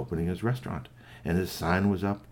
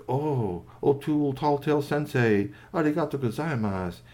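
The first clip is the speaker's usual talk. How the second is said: higher-pitched polite character voice; raised, deferential little voice; respectful toy robot; 5 semitones higher than usual. Acted. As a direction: greet a revered teacher in toy's voice. Toy robot respectfully thanks the doctor.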